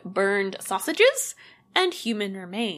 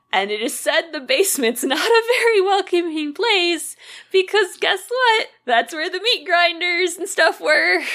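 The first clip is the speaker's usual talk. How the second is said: tag; 8 semitones higher than usual. Real, not acted. Creepy basement reveal, half laughing.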